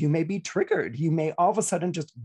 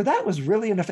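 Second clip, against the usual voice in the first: higher, louder, huffy scolding; mock scolding; 5 semitones higher, 4 dB louder, faster than usual. Receiver scolding the apologiser, hammed-up huff. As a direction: scold them for what they did.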